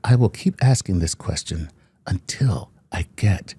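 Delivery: a hint of a creepy slasher; Freddy Krueger voice. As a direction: read it like a lurking horror villain. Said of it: "he sound like Freddy Krueger".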